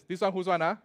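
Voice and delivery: Singaporean accent. Shown as a demonstration. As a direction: ask it again, relaxed Singlish. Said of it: "Whose thing is this?".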